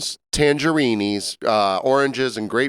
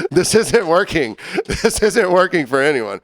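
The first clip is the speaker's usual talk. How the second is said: laughing; 6 semitones higher, 3 dB louder than usual. Retold or imitated. Eric calmly laughing off punches.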